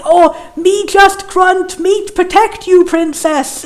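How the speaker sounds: slow, lightly voiced dumb caveman. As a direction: plod through it like a caveman. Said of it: "caveman voice".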